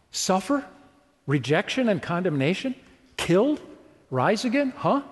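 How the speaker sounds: baffled, questioning "rise again, huh?"; incredulous echo. Shown as a demonstration. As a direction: repeat it as though you can't believe it. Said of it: "all four of those things knocked them backwards".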